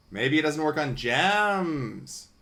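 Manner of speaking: resigned slow realisation; slow disappointed drawl. Real, not acted. Gamer realising the metal detector skips gems, slow and let down. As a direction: stretch it out slowly, let down.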